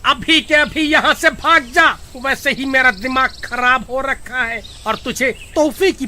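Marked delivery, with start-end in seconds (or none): 0.1-1.9 angry, raised-pitch order; irritated outburst. Acted. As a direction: send the nagging wife packing. Husband orders wife away. (झुंझलाकर डाँटते हुए)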